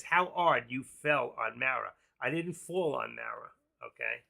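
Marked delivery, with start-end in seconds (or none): 0.0-1.9 slow read-out question. Shown as a demonstration. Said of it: "it says".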